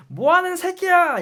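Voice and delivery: high, slow mock furious yell; a platoon leader chewing out a recruit, imitated yelling; imitating platoon leader yelling. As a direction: bellow it like an enraged officer. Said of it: "막 이러-, 이러는 거야. 그 소대장님이".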